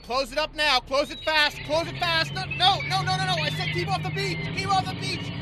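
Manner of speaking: high, loud angry yelling. Acted. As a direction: bark orders across the water. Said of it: "stop yelling at me".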